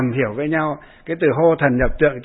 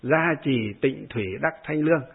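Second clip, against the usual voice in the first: recited verse. Shown as a demonstration. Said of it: "đọc cái bài này".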